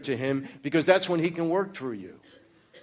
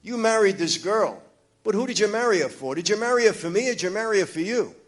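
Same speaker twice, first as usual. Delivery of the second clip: raised, insistent cross-examining voice; God confronting him; 6 semitones higher than usual. Retold or imitated. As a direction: challenge him pointedly, pitched up. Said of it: "it was like God was saying".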